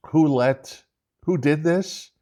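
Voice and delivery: ranting at viewers about blame; indignant. Real, not acted. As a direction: demand who's to blame. Indignant rhetorical question.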